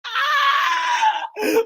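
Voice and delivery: very high, drawn-out squeal of laughter; real helpless high-pitched cackle; shrieking laugh. Real, not acted. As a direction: laugh until it turns into a squeal. Cracking up at the man's face.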